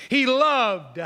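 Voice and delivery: "loved" hit hard to point out the past tense; emphatic weight on "loved"; stress on LOVED. Shown as a demonstration. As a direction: punch the word "loved", stretching to its ending. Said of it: "E D, past tense".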